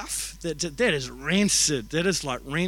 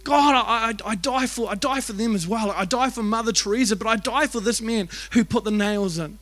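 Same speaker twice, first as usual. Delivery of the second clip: acted impassioned plea, pitched up; Jesus; 3 semitones higher than usual. Jesus speaks to God from the cross, acted impassioned plea. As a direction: plead earnestly for the undeserving, re-enacted. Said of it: "And he's crying out".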